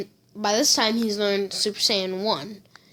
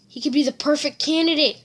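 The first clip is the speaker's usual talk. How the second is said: higher and fast, excited mutter of "candidate"; All Might musing; 5 semitones higher, much faster than usual. Acted. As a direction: blurt the thought quickly. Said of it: "And All Might's like".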